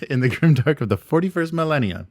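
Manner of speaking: grandiose trailer voice; dramatic narrator voice. Shown as a demonstration. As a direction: boom it out like an epic trailer. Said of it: "You're not gonna be able to say it with a straight face".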